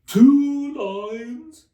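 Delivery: high, loud cry; cried out. A narrator's reading. The Mock Turtle cries out at Alice, high and loud. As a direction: cry it out in surprise. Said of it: "cried the Mock Turtle".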